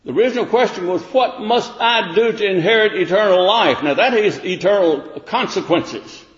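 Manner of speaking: high, loud searching questions; preaching at full force. Acted. Preacher challenging listeners, loud rising sermon voice. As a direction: press the questions on the congregation.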